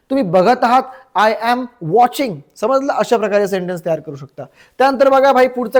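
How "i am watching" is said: very slow, spaced-out model sentence; slow teaching model. Shown as a demonstration. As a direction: say each word slowly for learners. Teacher models the English answer. (शिकवण्यासाठी अगदी सावकाश)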